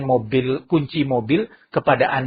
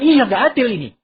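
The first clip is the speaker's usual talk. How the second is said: onlooker; 9 semitones higher, 4 dB louder than usual. Acted. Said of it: "itu mengatakan".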